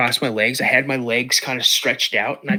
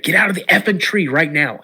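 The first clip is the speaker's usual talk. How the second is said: louder, higher urgent order; urgent command; 5 semitones higher, 4 dB louder than usual. Retold or imitated. Dad ordering son out of the tree, urgent and louder. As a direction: order the boy down now. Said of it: "He's like".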